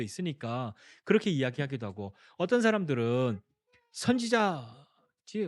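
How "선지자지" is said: slow, drawn-out, higher wondering voice with a rising end; musing guess. Retold or imitated. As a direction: stretch out 선지자지 slowly like someone pondering aloud. People guessing who Jesus is. (느리게 길게 끌며 올려 말하는 추측)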